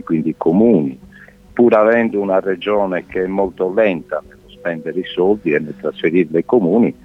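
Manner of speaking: thin telephone line sound; over a landline phone. Real, not acted. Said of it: "dall'altro capo del telefono".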